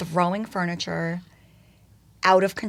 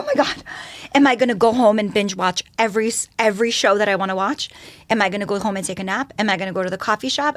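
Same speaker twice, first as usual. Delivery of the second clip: giddy excitement; 5 dB louder, faster than usual. Retold or imitated. Giddy about a day without kids.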